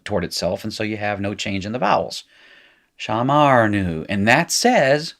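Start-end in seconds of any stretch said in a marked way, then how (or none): 3.0-4.1 Shamarnu said slowly, stress landing on nu; Hebrew word shamarnu. Shown as a demonstration. Teacher pronouncing the new form for students, slow. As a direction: sound it out for the class. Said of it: "We observed".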